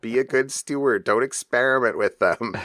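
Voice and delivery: wife. Retold or imitated. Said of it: "was like".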